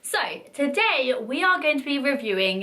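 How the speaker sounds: hoarse from the flu; husky flu voice. Real, not acted. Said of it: "Excuse my husky voice".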